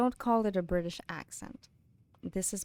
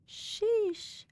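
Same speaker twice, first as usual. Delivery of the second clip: sheesh; 14 semitones higher than usual. Real, not acted. Realizes eight hours live.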